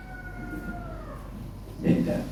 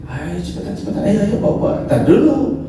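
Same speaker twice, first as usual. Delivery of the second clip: much higher, hurried urging; eager Idris; 7 semitones higher than usual. Retold or imitated. Idris urging the angels to hurry, high eager voice. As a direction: rush them along, high pitched.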